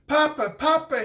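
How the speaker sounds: put-on eager child calling for grandfather; excited cry. A narrator's reading. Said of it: "he cried".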